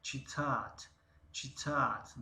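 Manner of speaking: چیتات said clearly with a falling end; teacher modelling the Russian verb چیتات; model word. Shown as a demonstration. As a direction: pronounce چیتات slowly for learners. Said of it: "نگاه کنیم".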